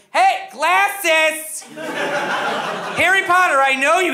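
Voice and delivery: half-laughing mock shout; mock yell. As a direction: call out teasingly like the rude passenger. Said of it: "she just kept screaming at me".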